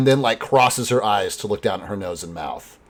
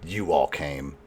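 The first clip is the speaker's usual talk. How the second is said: very low, hushed reply; subdued captive; 9 semitones lower, 10 dB quieter, much slower than usual. Acted. Captive elf priestess to the intruders, low and hushed. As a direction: let it out softly and low.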